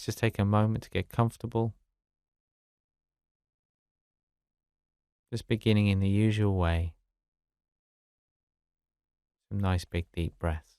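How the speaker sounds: calm, unhurried meditation guidance with long pauses; guided meditation. Acted. Meditation teacher settling listeners into the daily exercise, calm and unhurried. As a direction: ease them gently into stillness, leaving space between phrases.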